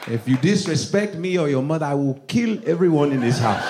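mock-threatening accented father; strict dad. Dad warning children about disrespect, mock-stern accented voice. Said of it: "one of those dads that's like".

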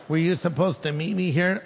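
retold baffled echo of a question; mildly incredulous, rising finish; puzzled echo. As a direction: repeat it back questioningly, lifting at the end. Echoes stranger's question in disbelief.

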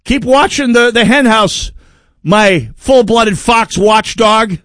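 high, put-on naive farmer voice; gullible farmer. Farmer answering the fox accusation, high and foolishly trusting. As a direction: play the duped farmer, going back to bed. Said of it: "And say".

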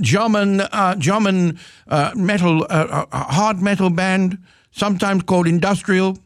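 high-pitched, hammed-up German accent; terrible German accent. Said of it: "That was the worst German accent".

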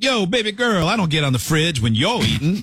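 exaggerated pet-talk, high swooping start; mocking impression. Teasing co-host copying her talk to the cat, mocking impression. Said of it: "You sound like that?".

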